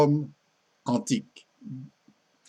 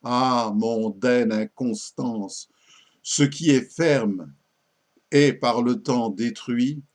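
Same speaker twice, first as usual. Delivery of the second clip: measured sonnet reading, pauses between phrases; lightly declaimed French verse; poem recitation. Acted. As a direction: recite it line by line, letting each ending fall.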